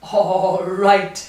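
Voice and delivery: laughing. A narrator's reading. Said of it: "bursting with laughter".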